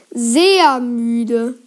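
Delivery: drawn-out hypnotic words; hypnotist's suggestion. A narrator's reading. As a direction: stretch it out to lull the listener. George continues hypnotising. (gedehnt und suggestiv)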